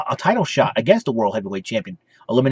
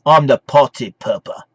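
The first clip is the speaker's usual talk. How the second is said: Adam Rose; 2 semitones lower than usual. Retold or imitated. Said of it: "Mister Adam Rose".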